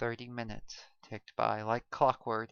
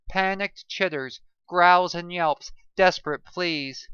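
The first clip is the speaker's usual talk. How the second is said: loud, intense panicked telling; heightened narration; 6 semitones higher, 10 dB louder than usual. A narrator's reading. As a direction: push the chaos into the telling.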